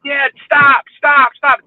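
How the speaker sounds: imitated crying child. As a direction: mimic an upset kid begging dad to stop. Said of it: "screaming and crying, telling his father to stop".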